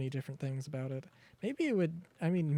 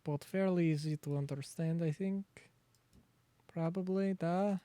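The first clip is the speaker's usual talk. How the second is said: bad Russian accent; 2 semitones higher than usual. Streamer asks chat about it in a mock Russian accent. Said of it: "Very bad Russian accent".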